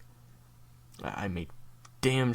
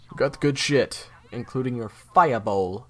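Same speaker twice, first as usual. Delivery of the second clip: excited announcement; 4 semitones higher, 9 dB louder than usual. Acted.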